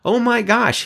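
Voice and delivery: dismayed realization. Retold or imitated. Keller's guilty realization, acted.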